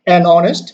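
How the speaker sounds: "honest" starting on an "o" sound, no H; silent H. Shown as a demonstration. Teacher reading an example to learners, silent H in honest. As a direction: link An into honest, leaving the H silent. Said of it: "H pronunciation is silent".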